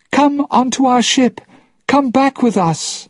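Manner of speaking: high, loud plea; calling out. Acted. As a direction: call him aboard across the water. Calling father to the ship.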